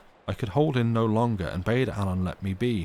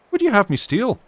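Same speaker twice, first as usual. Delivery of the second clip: much higher, loud indignant shout; fury; 13 semitones higher, 9 dB louder than usual. Acted. Alan turning on the maid, furious shout. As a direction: fling the question at her in fury. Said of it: "same appearance of fury".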